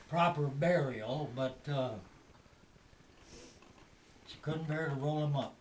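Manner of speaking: lightly put-on country storyteller voice; folksy old-timer storyteller. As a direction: tell it like a tall-tale teller. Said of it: "I don't really talk like this".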